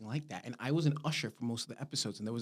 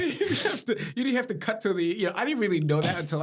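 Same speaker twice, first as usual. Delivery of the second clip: laughing through the words, pitched up; real laughter breaking into the words; 8 semitones higher, 6 dB louder, faster than usual. Real, not acted. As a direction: giggle while talking. Laughing at grim play summary.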